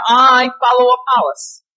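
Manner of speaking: "I" in "I follow Apollos" hit firmly; emphatic "I" at the start; stress on I. Shown as a demonstration. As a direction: lean on the "I". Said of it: "let me emphasize the word "I".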